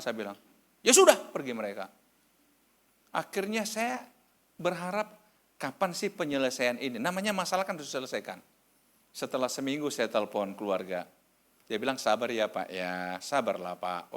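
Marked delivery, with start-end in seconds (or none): 0.8-1.1 sudden loud, high brush-off; curt dismissal. Retold or imitated. Angry visitors give up and leave, loud dismissal. 12.0-14.1 low, drawn placating voice. Retold or imitated. Family on the phone tells pastor to wait, placating.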